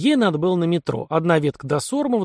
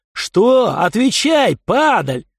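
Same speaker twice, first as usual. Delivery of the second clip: loud, higher furious yelling; furious shout; 8 semitones higher, 6 dB louder, much slower than usual. A narrator's reading. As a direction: spit the words out in rage. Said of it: "брызжа слюной и яростью".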